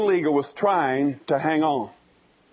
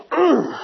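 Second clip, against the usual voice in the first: grunt of effort; 9 semitones higher, 4 dB louder than usual. Retold or imitated. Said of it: "and he just goes".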